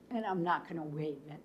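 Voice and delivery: quick, unvoiced whisper; whispered aside as a senator. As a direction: mutter it like the stubborn senator. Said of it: "if I'm Senator Gray".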